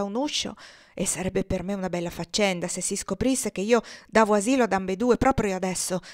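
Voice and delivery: a lightly voiced firm husband warning his wife; worried senator. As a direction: lay down the law, anxious and firm.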